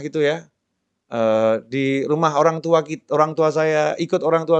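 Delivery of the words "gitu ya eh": ordinary delivery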